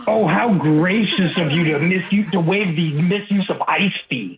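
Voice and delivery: dry mock gratitude; sarcastic. Real, not acted. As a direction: thank them without meaning it. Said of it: "I was being sarcastic".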